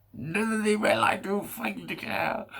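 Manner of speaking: high, slow, sneering voice; stupid critic voice. Retold or imitated. Inner critic mocking him in a high, slow, sneering voice. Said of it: "that stupid fucking voice".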